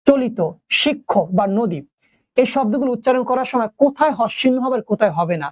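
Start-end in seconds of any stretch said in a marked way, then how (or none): 0.1-0.4 চলিত said with a full open o at the end; open final vowel. Shown as a demonstration. Teacher sounding out চলিত for the class, ending open. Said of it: "যদি উচ্চারণ করো". 0.8-1.8 শিক্ষক বা নদী said slowly and carefully; slow demo words. Shown as a demonstration. Teacher slowly sounding out example words for students. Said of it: "যদি উচ্চারণ করো".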